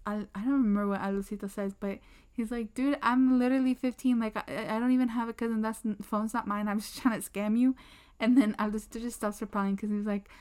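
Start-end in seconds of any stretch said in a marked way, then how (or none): 2.7-7.8 imitated panic. Panicking kid confesses to the prankster, imitated panic. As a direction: act out a kid blurting a confession. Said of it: "the kid's literally panicking".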